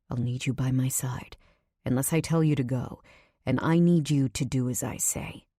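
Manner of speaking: businesslike man giving instructions; Nico, serious and commanding. Acted. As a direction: set out the terms in a low-key male voice. Voices Nico laying down terms.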